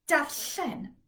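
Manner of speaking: darllen slow, ll in the middle hissed; slow Welsh ll. Shown as a demonstration. Teacher showing ll mid-word, pronunciation. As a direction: hiss the ll in darllen, slowly. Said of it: "S comes in the middle of the word".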